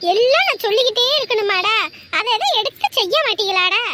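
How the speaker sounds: exasperated nagging at family; scolding. Acted. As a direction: scold them, fed up with repeating yourself. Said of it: "கத்தாத".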